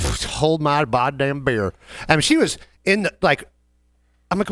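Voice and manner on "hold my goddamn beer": put-on slow, drawn-out drunk customer voice; imitating a drunk customer demanding a drink; slow drunk woman. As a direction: drawl it like a tipsy bar patron. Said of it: "she was like".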